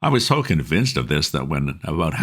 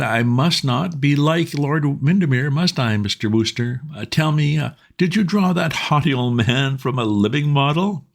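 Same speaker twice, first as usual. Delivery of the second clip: put-on higher old lord voice; fussy elderly peer, enquiring; 12 semitones higher than usual. A narrator's reading. Old lord quizzing Wooster about the novel, higher voice.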